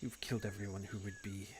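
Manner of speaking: lightly voiced sister, low and quiet; understated bitter sister. Sister answers soldier about lost officers, low understated voice. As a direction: answer softly, with pauses between phrases.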